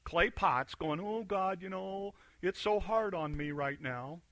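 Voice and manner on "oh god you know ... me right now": a mild mock whine about hardship; whiny. Clay pot whining to God about its hard life, mock whine. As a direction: lightly whine it like a self-pitying pot. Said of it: "a bunch of whiny clay pots going".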